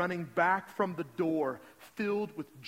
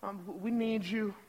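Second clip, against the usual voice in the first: plain, hesitant imitated prayer; understated retold plea to God; simple prayer. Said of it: "this missionary prays a simple prayer".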